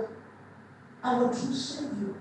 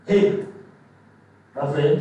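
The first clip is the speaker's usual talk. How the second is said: exasperated call; 6 semitones lower, 5 dB louder than usual. Retold or imitated. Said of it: "that's what I would say".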